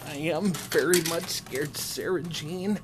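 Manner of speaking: timid nervous nebbish voice; scared nebbish voice. Pretend. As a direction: play a jittery nervous nebbish. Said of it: "That's a weird voice".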